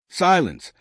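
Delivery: a commanding bark of one word; alien shout. A narrator's reading. Alien commander silencing the laughing crew, shouting. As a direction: shout him down, mighty and offended. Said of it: "the alien commander shouted".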